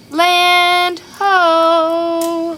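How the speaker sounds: high, loud call of land ho; cried out. Acted. Pete to his shipmates, a high loud call of land ho. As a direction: call out like a lookout spotting land. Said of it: "He's got a speech bubble right there".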